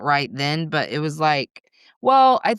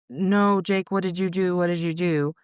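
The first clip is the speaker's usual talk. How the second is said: higher, drawn-on pleading questions; understated cry of dismay, pitched up; retold distressed plea; 4 semitones higher than usual. Mother imitating Bryson finding Jake unresponsive, distressed.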